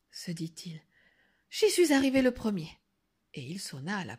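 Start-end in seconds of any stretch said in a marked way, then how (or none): 1.5-2.7 quick, a little higher; lightly voiced pleased wolf, rushed; mildly triumphant wolf. Wolf tells himself he arrived first, mildly triumphant.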